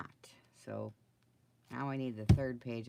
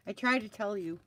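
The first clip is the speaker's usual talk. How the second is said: exasperated outburst; 7 semitones higher, 9 dB louder than usual. Real, not acted. Laughing at own crafting failure.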